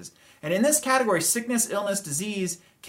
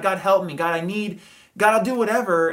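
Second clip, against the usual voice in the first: louder, pleading cry to God; desperate plea; 5 dB louder than usual. Retold or imitated. Someone in trouble calls out to God, a pleading cry. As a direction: beg God out loud, urgently.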